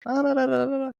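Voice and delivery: high-pitched mock babble; imitated chatter. Retelling the girls' reply to a compliment, imitated chatter. Mimicking the girls' excited response.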